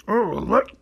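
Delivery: put-on high childlike Teletubby "Oh, look". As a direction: chirp it like a toddler on TV. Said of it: "then you know what that one is".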